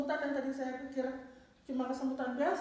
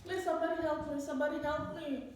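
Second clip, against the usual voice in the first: mild mock yell, pitched up; retold cry for help; 4 semitones higher than usual. Stricken woman calling out for anyone to help, half-hearted retold yell. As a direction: call for help at half force. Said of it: "Sembari saya teriak lagi".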